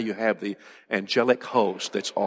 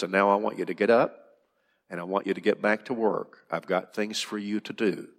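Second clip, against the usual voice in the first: calm God; 2 semitones lower, 4 dB quieter than usual. Acted. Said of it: "he talks to him calmly".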